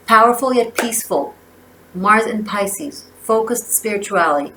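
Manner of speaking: measured oracle-card reading, phrase by phrase; reading aloud. Real, not acted. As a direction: read the card's message out with emphasis. Reads oracle guidebook aloud.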